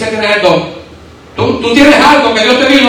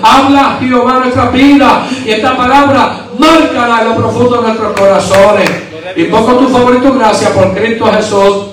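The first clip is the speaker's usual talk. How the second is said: closing prayer. Real, not acted. Closes the prayer.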